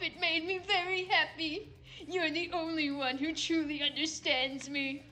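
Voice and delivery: lightly voiced Trump reading a love letter; a hint of Trump, mock tender; Trump impression. Trump writing a farewell letter to Joe, lightly impersonated. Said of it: "it's the Trump impression".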